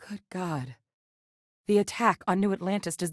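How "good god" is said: shocked hush. Acted. Shocked at news of attack.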